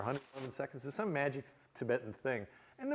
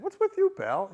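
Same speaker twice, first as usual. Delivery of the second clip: tough guy; 7 dB louder than usual. Retold or imitated. Tough guy confronts speaker.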